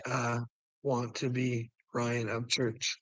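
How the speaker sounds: drawn out, each word slowed right down; slow motion. Shown as a demonstration. Correcting Carl's line, said slowly in slow motion. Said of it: "I think he meant to say".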